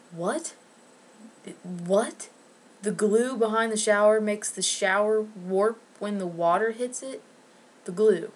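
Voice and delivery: disbelieving, rising at each question; incredulous questioning. Acted. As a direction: repeat his claim in sheer disbelief. Incredulous at contractor's excuse.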